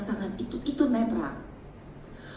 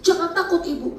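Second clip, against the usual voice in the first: mock counsellor; 7 semitones higher, 6 dB louder than usual. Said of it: "konseling bilang gini".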